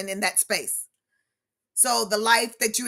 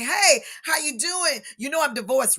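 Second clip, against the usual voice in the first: acted chatty greeting; 4 semitones higher than usual. Speaker greeting people in the grocery store, acted chattiness. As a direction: re-enact an oversharing greeting, pitched up. Re-enacting her oversharing greeting to acquaintances.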